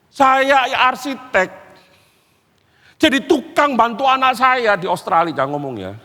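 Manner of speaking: ordinary delivery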